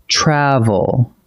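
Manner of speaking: "Travel" with emphasis on "Tra", not the last syllable; stress on first syllable. Shown as a demonstration. Teacher saying a word aloud for students, "Travel" stressed on first syllable. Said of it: "The emphasis sits on the first syllable".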